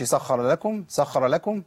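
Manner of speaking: "سخر لكم" with the kh hurried through; rushed doubled letter. Shown as a demonstration. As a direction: show the error: skim over the doubled خ of "سخر". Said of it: "ما نجريش بالخ-، بال-، بالحروف المشددة". ("سخر لكم" بالجري على الخاء المشددة)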